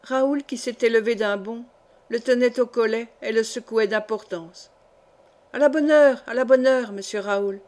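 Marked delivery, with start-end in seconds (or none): 5.5-7.6 stammering in fright. Acted. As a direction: blurt it out as he is shaken by the collar. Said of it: "balbutia le fiancé de Sidonie". (balbutiant, affolé)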